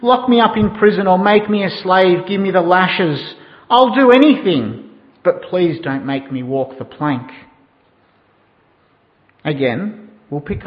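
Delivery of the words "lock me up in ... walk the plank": mildly acted pleading, raised pitch; a touch of desperate pirate begging. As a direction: plead with the captain, lightly hammed-up. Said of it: "He even begged".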